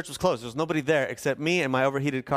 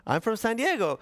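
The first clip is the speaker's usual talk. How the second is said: naive friendly answer; 8 semitones higher than usual. Retold or imitated. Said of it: "so I answered the only way I knew how".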